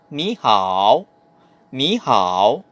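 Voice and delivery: ni hao, ni rising into a dipping hao; ni hao, tone sandhi demo. Shown as a demonstration. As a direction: lift ni up, then dip on hao. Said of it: "binigkas ko yung ni as ni, pataas, rising tone".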